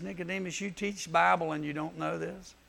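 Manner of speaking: gentle, softly voiced question; mild, kindly chiding, starting soft; quietly puzzled teacher to a pupil. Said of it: "Jesus very kindly says".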